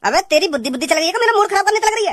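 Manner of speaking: annoyed scolding, rising in pitch at the end; irritated. Acted. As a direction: scold her, pitch climbing as patience runs out. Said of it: "तुम गुस्सा क्यों हो रहे हो?". (चिढ़कर डाँटते हुए)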